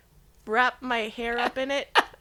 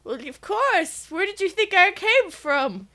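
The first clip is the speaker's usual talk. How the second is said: grandma voice; 2 semitones higher than usual. Acted. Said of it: "Tiffany, the grandma".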